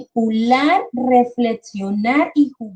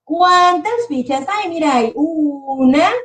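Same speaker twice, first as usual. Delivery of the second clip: put-on slow, higher, playful counting for a little kid; counting with a child; 4 semitones higher, much slower than usual. Shown as a demonstration. Teacher counting Lego pieces to her son, slow and playful. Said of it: "le voy contando".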